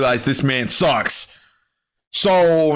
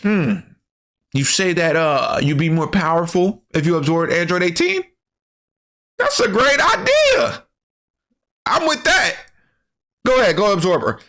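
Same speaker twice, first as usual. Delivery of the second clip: mock smug villain voice; cocky Vegeta; 3 semitones higher than usual. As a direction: sound arrogantly delighted by the idea. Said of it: "But then he's like".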